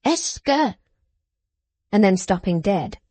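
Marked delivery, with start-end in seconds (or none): 0.0-0.7 raised voice. A narrator's reading. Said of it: "by saying in a raised voice".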